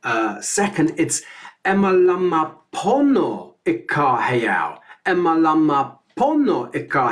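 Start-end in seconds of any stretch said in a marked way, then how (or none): 1.6-4.8 each syllable spelled out slowly; slow, deliberate teaching read; slow spoken lyric. Shown as a demonstration. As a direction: speak the lyric slowly and carefully for learners. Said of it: "the third line is very similar".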